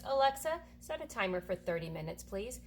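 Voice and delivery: calling out to Alexa; talking to voice assistant. Real, not acted. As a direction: clear command to a smart speaker. Calling out to smart speaker.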